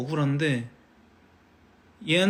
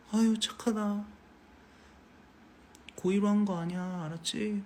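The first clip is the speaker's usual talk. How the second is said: softer, tender praise; tender soothing; 4 semitones higher, 7 dB quieter than usual. Retold or imitated. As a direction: soothe a hurt child gently. Soothing the crying niece. (우는 조카를 다정하게 달래는 말투)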